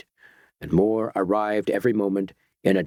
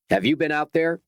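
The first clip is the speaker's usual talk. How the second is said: snapping; 6 semitones higher than usual. Acted. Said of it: "snapped Doctor Petrie".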